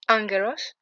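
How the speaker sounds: "angelos" with ng and a hard g; pronunciation demo. Shown as a demonstration. Teacher giving a Greek first name, "angelos" with hard ng. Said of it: "qui se prononce comme ça".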